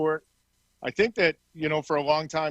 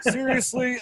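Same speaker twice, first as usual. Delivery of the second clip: high-pitched questioning disbelief; can't-believe-this query; incredulous; 8 semitones higher than usual. Retold or imitated. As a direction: retell it as a stunned plea. Retold disbelief at opponent's challenge.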